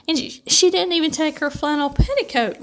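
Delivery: high, mournful lament. A narrator's reading. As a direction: wail it like a small tragedy. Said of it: "lamented Cousin Stickles".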